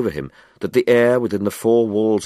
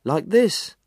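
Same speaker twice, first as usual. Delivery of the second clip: much higher and fast, exasperated scolding; irritable scolding; 12 semitones higher than usual. Acted. Window cleaner scolds Jenkinson over the bone, irritable and fast. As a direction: hurry him up with impatient annoyance. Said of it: "cried the window cleaner irritably".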